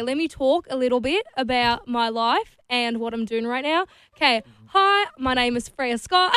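tentative go at an Australian accent; attempted Aussie accent. Shown as a demonstration. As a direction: try out an Aussie accent, a little unsure. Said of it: "how well do you do an Aussie accent?".

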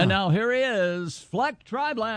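game show host. Pretend. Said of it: "sounds like a game show host".

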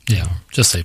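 whispering. Pretend.

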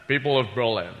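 low Scottish Connery voice doing Kennedy; Sean Connery as Kennedy. Retold or imitated. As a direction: Sean Connery's Scottish accent playing Kennedy, slushy s sounds. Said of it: "Sean Connery doing, uh, President Kennedy".

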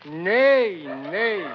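spoken schoolbook neigh, falling; horse neigh. Acted. Reading a farm primer aloud, mildly imitating a horse. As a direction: read the horse's neigh as drawn-out words. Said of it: "my horse answers".

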